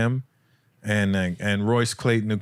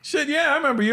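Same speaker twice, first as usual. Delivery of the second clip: much higher, excited retold reply; imitated delighted recognition. Comic imitates Ray recognising him from Toronto, excited high voice. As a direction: act out suddenly remembering an old acquaintance.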